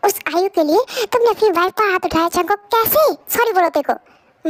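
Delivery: acted indignant reproach; outraged mother scolding. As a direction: scold your son in outraged disbelief. Mother confronts son over slap.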